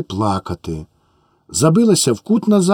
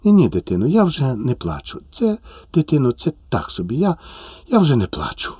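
holding back tears; 3 dB quieter than usual. Acted. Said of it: "А чого ж ви плачете?".

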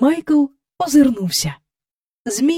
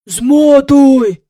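hissed order; 3 semitones higher, 10 dB louder than usual. Acted. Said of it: "просичав доглядач".

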